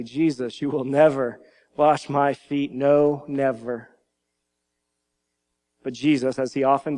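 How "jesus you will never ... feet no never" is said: firm quote with "No" punched and "never" dropped; mildly acted, emphatic protest; emphatic refusal. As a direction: refuse firmly, setting "No" apart from "never". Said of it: "he says so quite emphatically".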